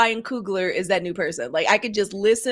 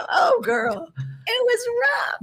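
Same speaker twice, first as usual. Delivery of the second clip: dramatic wail; slower than usual. Real, not acted. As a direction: wail it out in comic despair. Exclaiming about rough night.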